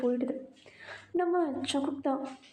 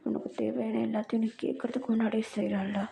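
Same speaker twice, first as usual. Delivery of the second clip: possessive lover. Acted. A singer voiced low. (தாழ்ந்த குரலில் உரிமை கொண்டாடும் காதலன்)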